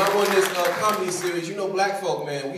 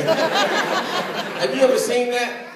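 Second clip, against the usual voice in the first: incredulous; 7 semitones higher, much slower than usual. Real, not acted. Incredulous question to crowd.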